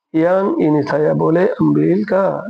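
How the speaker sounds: each word drawn out slowly for learners; slow teaching demo. Shown as a demonstration. Teacher reading a Malay sentence to learners, very slow. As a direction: spell it out slowly to a student. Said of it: "বলে আমবিল কা?".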